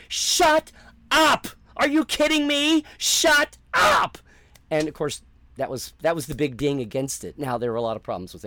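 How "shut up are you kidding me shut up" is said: much higher, loud squealing shout of delight; excited disbelief. Retold or imitated. Fan hearing the prequel news, shrieking in glee. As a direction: scream it like you can't believe your luck. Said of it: "I was like".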